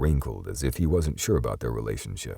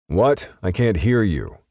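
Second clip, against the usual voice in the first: mock shout; 8 semitones higher, 6 dB louder than usual. A narrator's reading. Teasing over loud radio.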